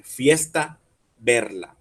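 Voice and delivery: "Fiesta", alto y fuerte, luego "verla" más bajo; buscando que rime. Shown as a demonstration. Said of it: "la manera en que se rime". ("Fiesta, verla" con pausa y la E tónica marcada)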